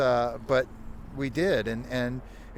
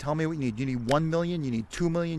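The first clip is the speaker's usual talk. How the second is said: a hint of a fast-talking New York money man; Brooklyn guy impression. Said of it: "he's talking like this".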